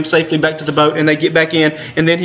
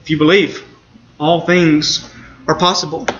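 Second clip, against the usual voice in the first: soft, lower reassurance; quiet and gentle; 4 semitones lower than usual. Retold or imitated. Jesus quietly answering the doubting father, soft and gentle. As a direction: gently point him to faith. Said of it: "Jesus quietly points him to faith".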